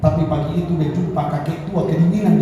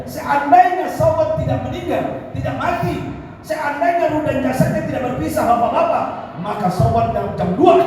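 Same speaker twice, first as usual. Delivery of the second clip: impassioned preaching; 9 semitones higher than usual. Real, not acted. Preacher tells the congregation of Sauban's devotion, impassioned preaching. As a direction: preach with raised pitch and urgency.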